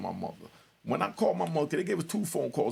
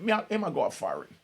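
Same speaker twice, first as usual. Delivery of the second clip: Jamaican patois; 3 semitones higher than usual. Retold or imitated. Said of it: "So he said".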